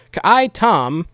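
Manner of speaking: "Ka'ai Tom" said kuh-EYE TOM; careful name pronunciation. Shown as a demonstration. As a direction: split "Ka'ai" into two syllables, kuh-EYE. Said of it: "I feel like I'm mispronouncing that".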